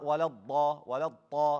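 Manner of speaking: walad ta with a popped stop for the dad; wrong letter. Shown as a demonstration. Teacher shows mistakes, walad ta with no drag. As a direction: burst the last consonant in walad ta. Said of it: "It's not a ta".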